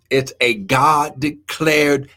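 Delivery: slow, emphatic explanation; deliberate teaching pace; real slow. Real, not acted. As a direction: stretch each key term so it gets through clearly. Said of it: "I'm trying to say it real slow".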